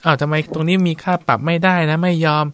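mock fussy complaint. Monk imitating a worker who hates the job, in a mock fussy complaint. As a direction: act out a worker fussing and moaning about wages, lightly. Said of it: "ฟูมฟายโวยวาย".

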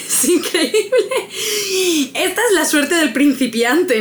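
slow, laughing disbelief. Real, not acted. Player laughing at her beginner's luck, amused and amazed. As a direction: talk through the laughter, amazed.

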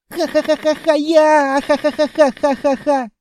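high, loud squealing laughter through words; laughing while tickled. A narrator's reading. Tickled child laughing and begging the monster to stop. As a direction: giggle helplessly while pleading.

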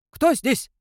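high, loud werewolf call with a howling edge; half-human wolf voice. A narrator's reading. Werewolf challenges hidden watchers, high howling voice. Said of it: "выдал волколак голосом, в котором странно сочетались человеческие интонации и волчий вой".

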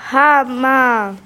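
understated storybook exclamation; mild cry out. A narrator's reading. Miko reacts as the spaceship is stopped, a mild cry. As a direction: read it as a small cry. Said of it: "gridò Miko".

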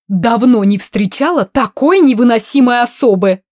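muffled through the vent; as if heard from inside a wall. Acted. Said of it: "глухо доносилось из недр вентиляции".

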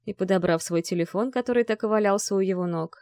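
ordinary delivery, nothing marked

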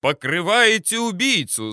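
loud, high accusing yell. A narrator's reading. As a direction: bellow it back at them. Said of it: "заорал я в ответ".

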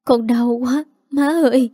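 pained cry, pitch rising toward the end; a faint plea, hurting; weak and in pain. A narrator's reading. Miscarrying daughter-in-law to her mother-in-law, weak and pained. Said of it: "Cô yếu ớt nói".

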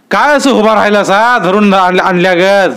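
high, scornful jeer at the frozen men; taunting bully. A narrator's reading. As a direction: sneer at them like a thug. (तुच्छतेने टोमणा)

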